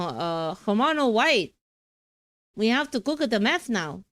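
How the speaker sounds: hammed-up Mexican accent from a crime drama; attempted Mexican accent. Streamer recalling Breaking Bad lines, mock Mexican accent. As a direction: put on a rough Mexican accent. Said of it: "what accent is this?".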